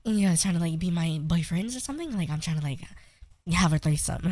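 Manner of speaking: soft put-on girl voice; teasing, softly feminine trolling. Shown as a demonstration. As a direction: slip into a soft girly voice. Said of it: "do the voice randomly".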